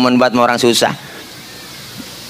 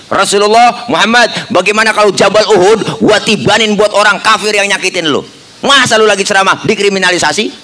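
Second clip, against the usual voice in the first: higher, pushy Betawi angel; indignant Jibril; 6 semitones higher than usual. Acted. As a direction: offer revenge with a hint of outrage. Angry Jibril offers revenge. (Jibril yang kesal, suara agak tinggi)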